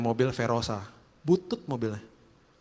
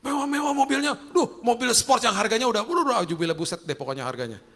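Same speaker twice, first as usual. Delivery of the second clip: higher, louder gushing at luxury cars; amazed inner voice; 7 semitones higher, 3 dB louder than usual. Retold or imitated. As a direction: marvel at the cars, half-joking. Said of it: "Dalam hati saya".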